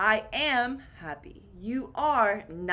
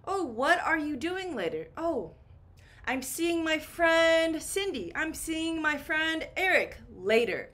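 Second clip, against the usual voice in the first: chatty friend voice; 6 semitones higher than usual. Shown as a demonstration. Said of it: "This one is very common".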